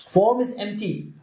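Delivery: form pitched high, empty falling after it; stress on form. Shown as a demonstration. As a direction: lead firmly with the word form. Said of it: "emphasis is on the form".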